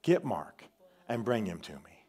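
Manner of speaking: dying man's plea. Retold or imitated. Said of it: "he says".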